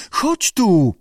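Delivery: high-pitched whimpered plea; whimpering. A narrator's reading. Lee begs Abe to come to her, whimpering. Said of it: "Kwilił koteczek Lee".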